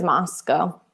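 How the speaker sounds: Moscow pronounced "MOSS-coh"; Idaho pronunciation. Shown as a demonstration. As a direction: end "Moscow" on a long "oh". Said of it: "In Idaho, they pronounce it as".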